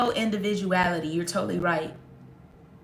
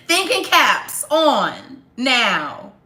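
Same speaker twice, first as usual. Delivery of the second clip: mock teacher; 5 dB louder, much slower than usual.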